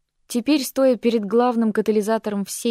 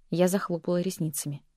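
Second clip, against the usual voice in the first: ordinary delivery, nothing marked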